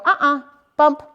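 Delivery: a quick, sharp guiding uh-uh; correction marker. Shown as a demonstration. Trainer correcting the dog with a leash bump. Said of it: "use my leash and go".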